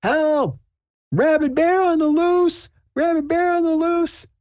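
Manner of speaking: very high, panicked calls for help; panicked shouting. Retold or imitated. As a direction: shriek it like a terrified bystander. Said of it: "someone's shouting".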